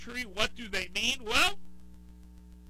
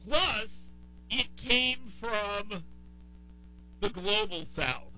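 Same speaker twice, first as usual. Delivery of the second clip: slow, drawn-out attempt at a Southern accent; half-hearted Southern accent, word by word; 2 semitones higher, much slower than usual. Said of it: "I guess I can do a Southern accent".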